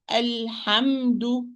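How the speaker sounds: Alhamdu slow, with a clean breathy ha; correct ha. Shown as a demonstration. Teacher repeating the right Alhamdu for students. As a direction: model Alhamdu with a clear airy ha. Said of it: "It's al-ha".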